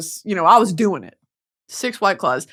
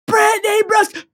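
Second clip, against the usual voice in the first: whispered call; 11 semitones higher than usual. Retold or imitated. Hushed echo of the fan's call.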